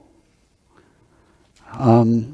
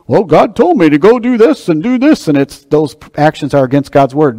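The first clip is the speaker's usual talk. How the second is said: mock misguided believer; 4 semitones higher than usual.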